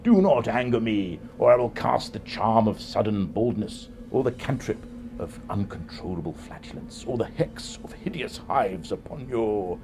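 slow, lightly menacing villain threats; Dark Lord insults. Shown as a demonstration. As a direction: threaten like a pompous overlord. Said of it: "It might go something like this".

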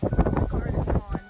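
very high, loud, slow horrified cry; real panicked shriek. Real, not acted. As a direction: cry out in disbelief and terror. Discovers car missing.

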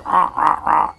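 short repeated parrot cries, "ah, ah, ah"; parrot squawk. Retold or imitated. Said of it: "a parrot always sounds like this".

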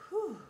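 high exhaled whew; relieved whew. A narrator's reading. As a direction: blow out relief. Relief after the spin.

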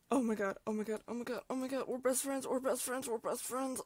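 rapid thrilled gushing; shrieking jackpot winner. Real, not acted. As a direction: gush like you just won. Cat picked up, thrilled.

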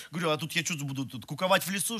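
ordinary talk, nothing marked

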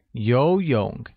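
游 rises from mid, 泳 dips; slow model 游泳 with clear tones; rising, then falling-rising. Shown as a demonstration. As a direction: say 游泳 slowly, lifting 游 and dipping 泳. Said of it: "uses a mid rising tone on the first O".

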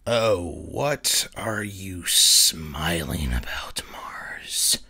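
mocking reflection. Reflection taunting Mars.

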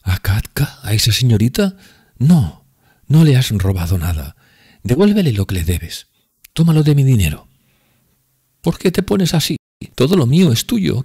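high, loud tipsy woman pleading; drunk Grushenka. Acted.

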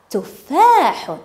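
very slow, drawn-out vowels; slow word modelling. Shown as a demonstration. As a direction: say each word slowly for young learners. Teacher gives answer word slowly.

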